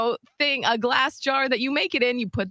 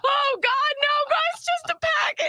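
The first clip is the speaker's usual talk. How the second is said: flustered; 14 semitones higher than usual. Retold or imitated. Retold confession to the fiancée.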